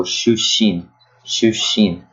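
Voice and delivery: shushin with a held pause before the second sh; pause inside word. Shown as a demonstration. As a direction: hold a brief silent beat inside shushin. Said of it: "It includes a pause".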